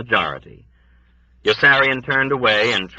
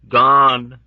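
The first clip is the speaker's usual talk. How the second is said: high, louder mournful word; mournful old woman; 5 semitones higher, 6 dB louder than usual. A narrator's reading. Old woman's flat answer.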